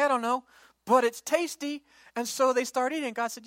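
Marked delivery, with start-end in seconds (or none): 0.0-1.8 delighted. Acted. People tasting manna.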